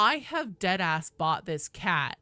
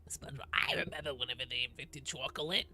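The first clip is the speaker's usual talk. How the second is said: put-on old lady voice; 5 semitones lower, 8 dB quieter, faster than usual. Quoting SpongeBob old lady.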